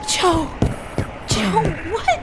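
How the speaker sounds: shocked shout. Acted. Seeing Joe hurt, shouting his name. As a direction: cry out on seeing him.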